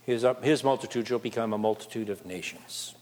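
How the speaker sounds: usual speaking voice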